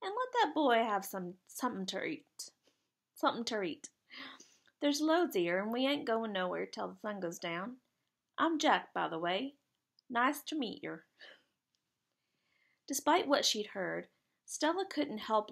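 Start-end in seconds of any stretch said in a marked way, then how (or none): 0.0-11.1 lightly voiced Jack. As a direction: lightly play a friendly lad in a dialect.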